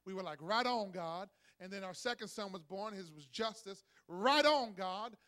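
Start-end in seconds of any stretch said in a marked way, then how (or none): 0.4-1.3 mock cheer. Parents cheering each birth. 4.1-5.2 loud, happy cheer of thanks. Retold or imitated. Second son, cheering louder.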